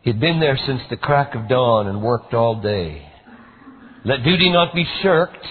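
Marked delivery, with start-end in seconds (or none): 4.0-5.5 high, loud stern proclamation; a stern taskmaster's motto, louder and higher. A narrator's reading. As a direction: declare it like a rule of life. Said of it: "he liked to say".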